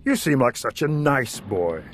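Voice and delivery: lightly voiced kindly executioner; friendly executioner. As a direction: smile through it. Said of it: "with a friendly smile".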